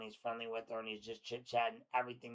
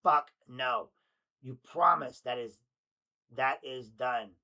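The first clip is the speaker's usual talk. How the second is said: loud frantic text read; 8 dB louder, slower than usual. Acted. Reading frantic texts aloud.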